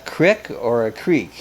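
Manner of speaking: CRICK with a short vowel, then CREEK with a long ee; crick versus creek. Shown as a demonstration. Contrasts two regional pronunciations.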